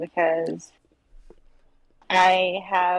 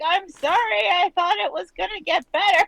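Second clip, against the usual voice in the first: high apologetic voice; 9 semitones higher than usual. Retold or imitated. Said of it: "and I was like".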